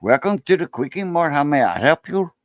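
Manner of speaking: light Indian accent shopkeeper. Shown as a demonstration. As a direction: Quickie Mart clerk in an Indian accent. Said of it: "an Indian accent".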